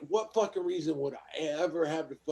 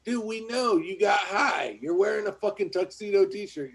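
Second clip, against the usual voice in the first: mock shout; 3 semitones higher, 4 dB louder than usual. Real, not acted. Mocking the speaker in tuxedo.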